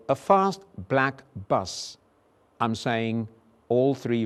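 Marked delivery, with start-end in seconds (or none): 0.1-2.0 "A fast black bus" said slowly, each vowel clear; slow model sentence. Shown as a demonstration. Teacher modelling three vowels slowly. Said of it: "If I say".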